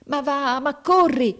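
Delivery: high, straining exasperated cry; gritted-teeth urging. A narrator's reading. Captain willing the boy to run, gritted-teeth urging. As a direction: urge furiously through clenched teeth. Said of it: "diceva il capitano stringendo i denti".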